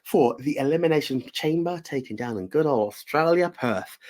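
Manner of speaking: put-on a deliberately awful Australian accent; hammed-up Australian accent hosting; bad Australian accent. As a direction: greet the viewers in an over-the-top fake Aussie accent. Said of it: "worst Australian accent you've ever heard".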